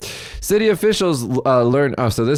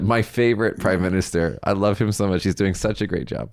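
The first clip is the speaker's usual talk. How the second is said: understated deadpan sarcasm, trailing softer; sarcastic; 3 dB quieter than usual. Real, not acted. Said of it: "it's sarcasm".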